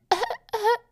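short high mock baby cries, French style; three quick fake French baby wails; baby cry with French accent. Shown as a demonstration. Asked for another accent, mock French baby cry.

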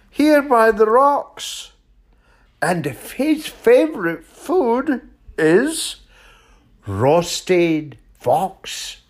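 high, emphatic little mouse; boastful mouse. Acted. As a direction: describe the monster with storybook relish. Mouse figure warns the fox.

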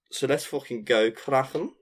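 Kraken in Scouse, the middle k scraped like kh; mock Scouse cheer with a throaty Kraken; Liverpool accent. Host cracking open the rum, in a playful Liverpool accent. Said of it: "easy word to say in a Liverpool accent".

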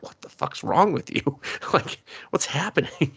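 high-pitched bewilderment through laughter; mock appalled, breaking into laughs; laughing disbelief. Friends reacting to her odd dream date, laughing disbelief.

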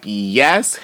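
loud, high hype cheering; excited cheer. Retold or imitated. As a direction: hype her up from the audience. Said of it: "I was like".

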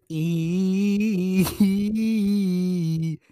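breaking into laughter; giggling start of a quote; laughing. Real, not acted. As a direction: laugh through a false start. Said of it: "why are you laughing".

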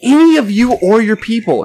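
high, drawn-out retold telling-off; scornful tirade. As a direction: build a hammed-up rant, stretching the key words. Retells telling stranger off.

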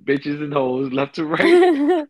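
words stretched out through a laugh. Real, not acted. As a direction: giggle through the line slowly. Laughing at own cursing.

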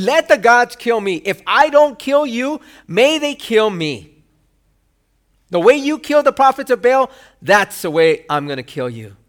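Jezebel's vow retold with mild anger; angry threat. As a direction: throw the threat out like an angry queen. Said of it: "She is saying".

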